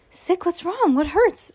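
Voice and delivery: high, concerned mother's questions; worried mom. Acted. Mom checking on Judy in bed, worried high voice. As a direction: fuss over her like an anxious parent.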